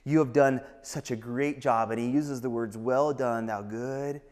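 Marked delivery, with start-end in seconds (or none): 0.0-1.9 soft, slow, earnest praise; hushed, heartfelt commendation; tender praise. Acted. Jesus tenderly praising the believer. 2.8-4.2 soft, low, trailing to near-whisper; slow down and hush toward the end; quiet, reverent praise; tender commendation. Acted. Jesus commends the faithful believer.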